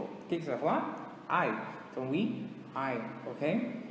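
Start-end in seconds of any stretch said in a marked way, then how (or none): 1.3-1.6 I said as "ai", like an ouch; English letter I. Shown as a demonstration. Teacher linking the letter to falling and getting hurt, I as "ai". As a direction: say I like the Portuguese cry of pain "ai". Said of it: "como que eu falo letra I em inglês".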